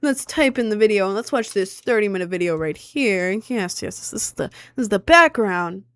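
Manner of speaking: mock the guy droning on about the show; mansplaining Australian guy. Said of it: "Pretend I have an Australian accent".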